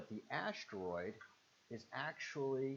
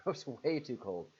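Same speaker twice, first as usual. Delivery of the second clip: laughing it out, slower and louder; 2 semitones higher, 5 dB louder than usual. Real, not acted. Laughing to a chat viewer about cold Rhode Island. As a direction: chuckle through the repeat.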